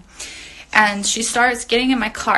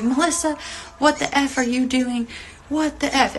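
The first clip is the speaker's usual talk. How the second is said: higher-pitched imitation of a scolding grandma; retold indignant scolding; 4 semitones higher than usual. Grandma running out to confront Melissa, retold indignant scolding. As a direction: act out a mild telling-off, pitched up.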